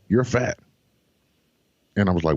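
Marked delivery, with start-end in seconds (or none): 0.1-0.6 higher, blunt doctor verdict; mock doctor, matter-of-fact; imitating the doctor.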